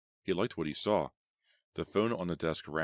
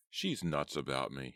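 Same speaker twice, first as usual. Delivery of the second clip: confident; 2 semitones lower than usual. Acted. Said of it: "he told himself confidently".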